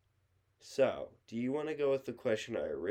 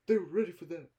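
hyped announcer; 6 semitones higher, 4 dB louder, faster than usual. Retold or imitated. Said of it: "remember that from Lego Movie".

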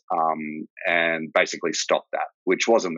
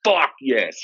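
a burst of eager excitement, pitched up and louder; eager yes; 4 semitones higher, 3 dB louder than usual. Retold or imitated. Soldier jumps at the chance to deploy, eager excited yes. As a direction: blurt it out like you've just been handed your dream job.

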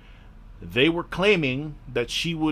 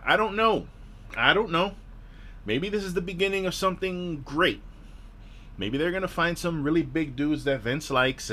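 pitched up, hopeful but unconvinced; forced optimism; 2 semitones higher than usual. Real, not acted. Podcaster half-heartedly hoping the show improves, raised forced-optimism voice. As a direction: talk yourself into hope you don't feel.

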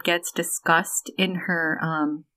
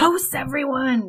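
barking captain; 5 semitones higher than usual. Retold or imitated. Quoting the delusional captain.

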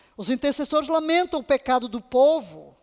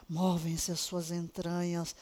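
softer slower; 7 semitones lower, 10 dB quieter, slower than usual. Shown as a demonstration.

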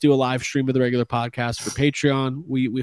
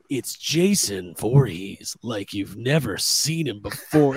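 trailer voice; 4 semitones lower, 3 dB quieter, slower than usual. Retold or imitated. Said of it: "he's like".

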